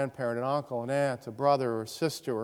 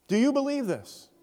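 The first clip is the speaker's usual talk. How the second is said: searching question; 11 semitones higher than usual. Real, not acted. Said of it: "direct challenge to congregation".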